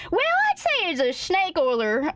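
ordinary delivery

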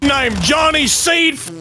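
put-on gruff voice; voice changer. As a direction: bark through a fake voice. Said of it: "He's using a voice changer".

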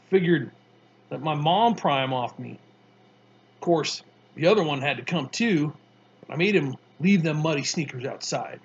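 put-on a tough kid, amused, spinning his story; Mars Bar voice.

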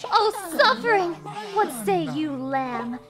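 gothic villain. Acted. Streamer mocking the game's dark speech, hammed-up villain. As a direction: boom out the doom like a dark preacher.

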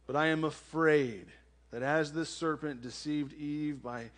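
measured Bible reading with deliberate pauses; solemn pulpit reading; scripture reading. Real, not acted. Reads the scripture passage aloud.

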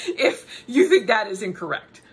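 laughing through a mock challenge. Real, not acted. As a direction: dare them while laughing.

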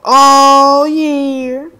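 high, loud, drawn-out whoop; triumphant cheer. Real, not acted. Player blaming the elf then cheering, triumphant whoop. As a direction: whoop it out in delight. Celebrates in game.

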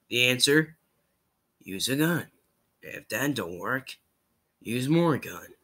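lightly voiced Southern engineer; low-key, matter-of-fact Southern monologue; a hint of a laconic problem-solver. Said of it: "I just did Meet the Engineer".

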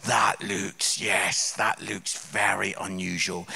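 low, hushed mock-polite musing; polite inner thought. Comedian mocks his own polite dinner-guest thoughts, low and wary.

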